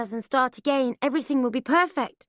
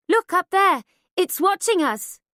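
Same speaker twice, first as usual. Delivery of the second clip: high, louder, spooked; uneasy alarm; 6 semitones higher, 5 dB louder than usual. A narrator's reading. Mother spooked by the trees, frightened. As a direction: point at the dark, frightened.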